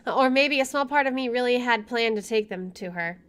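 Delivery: measured first-person narration; story narration. Acted. Player reading the game's inner monologue, story narration. Reads game narration aloud.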